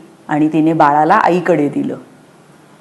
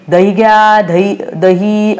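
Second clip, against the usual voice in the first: hawker call; 2 semitones higher, slower than usual. Pretend. Pretending to be curd seller.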